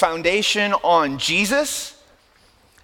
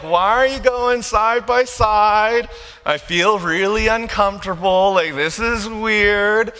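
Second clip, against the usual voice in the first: raised, drawn-out mock discomfort; uncomfortable complaint; 3 semitones higher than usual. Preacher voicing your reaction to an odd friend, weirded out. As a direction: stretch the words in mock unease. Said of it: "you're like".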